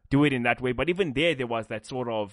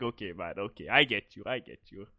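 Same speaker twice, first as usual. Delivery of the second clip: meek mock surrender; 8 semitones lower, 5 dB quieter than usual. Retold meek reply.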